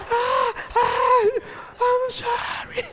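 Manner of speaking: high, loud, slow panicked apology; panicked yelling. Retold or imitated. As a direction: yell and apologize in a fright. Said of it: "ella gritaba y yo gritaba". (grito asustado y agudo pidiendo perdón)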